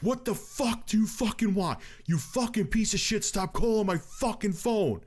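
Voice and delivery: retold angry outburst. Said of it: "And I lost my shit".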